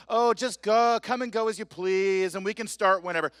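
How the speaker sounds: lightly lampoon a careless left-wing host; mocking lax liberal host. Host mocking Huffington Post hosts, breezy mock voice. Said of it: "like the Huffington Post".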